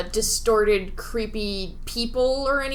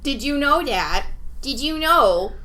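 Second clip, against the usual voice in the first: mock outrage; 4 semitones higher than usual. Ranting about the game's bedtime lines.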